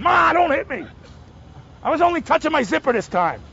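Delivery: high, whiny plea to Ma; a caught kid begging not to be hit; pleading kid. Pretend. A lightly voiced son begging his mother not to hit him, high and whiny.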